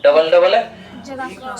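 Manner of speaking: very slow, stretched words; drawn out. Shown as a demonstration. Teacher drawing out the words to show a long vowel. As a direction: drag each word out to show length. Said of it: "समय ज्यादा लिया".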